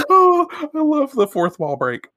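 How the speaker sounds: high, loud delighted exclamation; delighted gush. Real, not acted. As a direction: gush over the joke. Delighted by manga joke.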